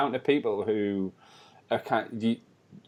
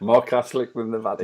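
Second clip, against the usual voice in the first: laughing while repeating. Real, not acted. Repeating a funny line, laughing.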